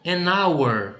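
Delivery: "hour" said with no H sound, linked to "an"; silent H. Shown as a demonstration. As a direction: say "an hour" with the H left mute. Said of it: "ele não é pronunciado, ele é mudo". ("hour" com H mudo, sem aspiração)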